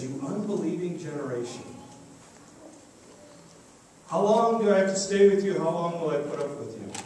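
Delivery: a touch of fed-up rebuke, easing off at the end; frustrated Jesus. Retold or imitated. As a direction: let mild frustration rise, then drop away. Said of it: "Jesus gets frustrated".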